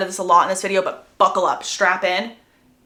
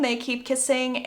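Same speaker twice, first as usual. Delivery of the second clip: ordinary delivery, nothing marked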